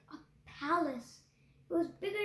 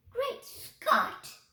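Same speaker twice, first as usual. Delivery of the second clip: louder, higher astonished exclaim; gasped; 7 semitones higher, 7 dB louder than usual. A narrator's reading. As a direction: blurt it in shock. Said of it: "he gasped".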